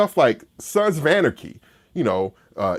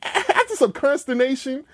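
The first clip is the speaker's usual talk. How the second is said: grudging admission; 10 semitones higher than usual. Retold or imitated. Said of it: "you're like".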